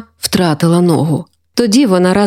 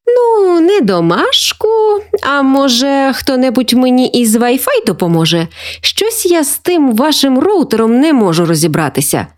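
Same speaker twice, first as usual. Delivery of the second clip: higher-pitched coaxing grandma, lightly voiced; sly, playful; 6 semitones higher than usual. Grandma asking grandchildren for router help, playfully sly. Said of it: "хитро підморгнула вона".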